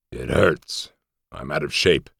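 harsh amplified voice. A narrator's reading. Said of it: "The amplified voice was harsh and deep".

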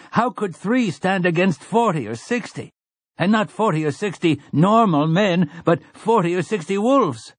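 high-pitched character voice of a doubter; objecting villager. A narrator's reading. Villager doubting three can beat sixty, high objecting voice. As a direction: argue the odds in a high voice.

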